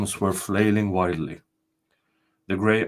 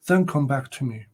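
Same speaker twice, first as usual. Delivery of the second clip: higher, solemn ghostly spirit; castle spirit; 4 semitones higher than usual. Acted. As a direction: announce yourself as the ancient spirit.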